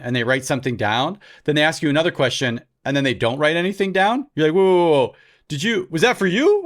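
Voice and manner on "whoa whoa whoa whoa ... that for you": mock-startled interruption, louder and higher; taken aback. Applicant stops the examiner over an odd question, mock taken aback. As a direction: cut in with hammed-up confusion.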